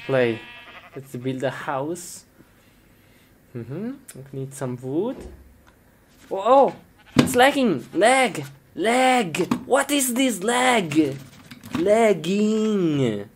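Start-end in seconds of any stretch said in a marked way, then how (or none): 6.3-13.3 higher, agitated complaining; high frustrated whine; alarmed. Real, not acted. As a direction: fret about the lag. Game lagging, frustrated.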